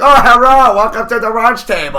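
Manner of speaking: high, loud mocking East Asian accent with L and R swapped; a schoolkid's jeering East Asian accent greeting. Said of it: "the switching of the L's and the R's".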